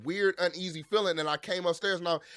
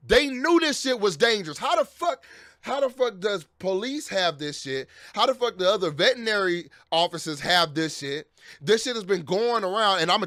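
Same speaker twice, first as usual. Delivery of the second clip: furious rant; 2 semitones higher than usual. Real, not acted. Furious rant about dangerous drugs.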